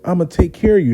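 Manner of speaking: a hint of a caring older woman promising; older lady voiced. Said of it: "She said".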